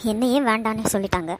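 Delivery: low, hurt and tearful. Acted. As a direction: speak low through tears, voice sinking away. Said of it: "அழுவாதம்மா".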